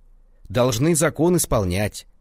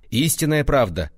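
exclaiming; 5 semitones higher, 4 dB louder than usual. A narrator's reading. Official exclaiming over the dead man, loud. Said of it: "воскликнул он".

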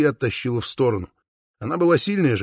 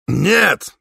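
a sharp, loud, angry cry of no; furious shout; 5 semitones higher, 5 dB louder than usual. A narrator's reading. Father blocks the suitor, shouting no in fury. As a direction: bark it out high and loud in fury. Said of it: "яростно крикнул Упа".

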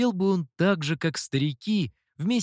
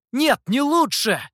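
much higher, louder furious retort; angry outburst; 10 semitones higher, 6 dB louder than usual. Acted. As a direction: snap back in rage. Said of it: "разгневался Сяо Ту". (гневно выкрикнул)

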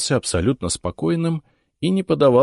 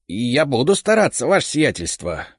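earnest promise; 7 semitones higher than usual. Acted. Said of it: "делая честные глаза".

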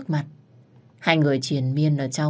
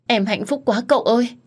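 overjoyed; 7 semitones higher, 3 dB louder than usual. Acted. Wife overjoyed at pregnancy news.

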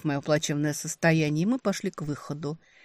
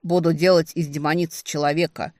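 grandly declared, louder; solemn announcement; 5 dB louder than usual. Acted. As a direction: announce it like a proclamation. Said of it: "торжественно объявил".

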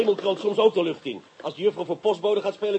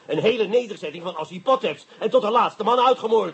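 accusing; 4 semitones higher, 3 dB louder than usual. Acted. Interrogation, accusing the witness.

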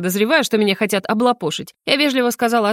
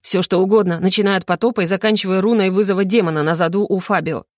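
usual speaking voice

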